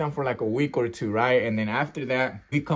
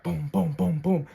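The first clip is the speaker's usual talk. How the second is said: quick voiced booms of blows landing; imitated punch sounds; 3 semitones higher, slower than usual. Man recounting a brawl to viewers, imitated blows.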